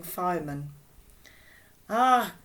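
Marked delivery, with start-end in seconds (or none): 1.9-2.3 put-on reassuring woman with a German accent. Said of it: "in her German accent".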